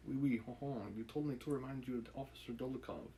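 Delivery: a light, mock French accent on the line; hint of a French accent, half-joking. Shown as a demonstration. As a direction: put on a playful French accent. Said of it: "what is my French accent? This".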